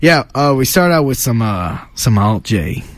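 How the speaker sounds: mock Italian-American East Coast accent; put-on Italian-ish accent. Radio co-host recapping the playlist, in a put-on Italian-ish accent. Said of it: "it's Italian accent. Whatever this, whatever accent this is".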